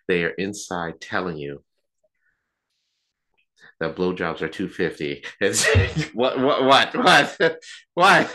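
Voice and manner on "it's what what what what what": louder and higher with each what; escalating mock outrage; incredulous what. Real, not acted. Outraged by own punchline.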